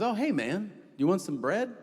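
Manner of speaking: a hint of a cheerful stranger offering bread; friendly guy. Stranger at the pond offers bread, lightly voiced friendly. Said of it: "He goes".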